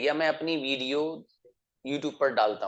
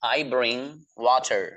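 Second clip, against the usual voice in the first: very slow, every word spelled out for learners; slow model sentence; 3 dB louder, much slower than usual. Shown as a demonstration. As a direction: say it slowly so students can repeat. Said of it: "teacher models English sentence". (बहुत धीरे, साफ़ बोलकर)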